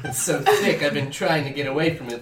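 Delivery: hammed-up French accent, low; thick French accent. Stranger confesses he is French, mock French accent. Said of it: "told by my accent. It's so thick".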